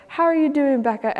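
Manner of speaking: lightly voiced kind older lady; kindly greeting. Grandma figure greets sad girl at coffee shop, kindly.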